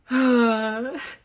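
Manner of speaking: high loud burst of laughter. Real, not acted. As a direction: crack up at yourself. Laughs at own old line.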